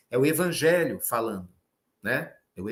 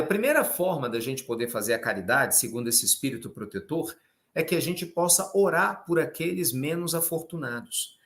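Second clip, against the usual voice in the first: usual speaking voice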